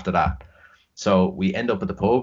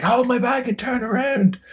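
high mock-girly voice, insisting; squeaky drunk coworker repeating her order; drunk girl's demand. Repeating her order to the coworker, high mock drunk girl voice. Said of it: "And she's like".

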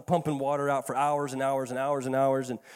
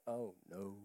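dismayed; 9 semitones lower, 18 dB quieter than usual. Retold or imitated. Dismay on entering house.

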